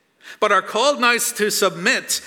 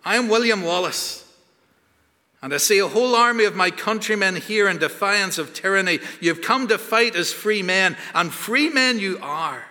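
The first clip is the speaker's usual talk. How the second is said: rally the frightened army, voice raised; William Wallace speech; 4 semitones higher than usual. Retold or imitated. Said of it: "I'm not doing the accent".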